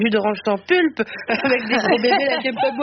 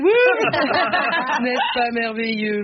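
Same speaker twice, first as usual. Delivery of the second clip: mock delight; much slower than usual. Mock rapture over country life.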